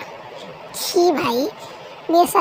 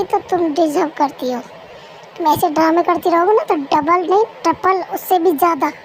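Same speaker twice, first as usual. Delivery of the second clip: cold command. Acted. Husband coldly orders wife home.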